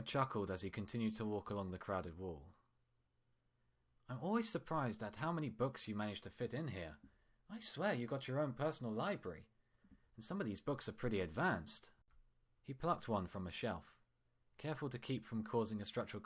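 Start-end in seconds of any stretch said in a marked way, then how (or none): 4.1-11.9 lightly voiced doctor, smooth and friendly; a hint of a cheerful hospital doctor; doctor Dreamer. Doctor chatting.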